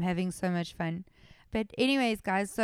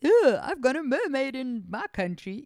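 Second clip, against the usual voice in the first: loud, groaning put-upon complaint; hammed-up exasperation; mock dismay; 4 semitones higher, 6 dB louder than usual. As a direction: whine it like an annoyed local. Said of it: "did I think".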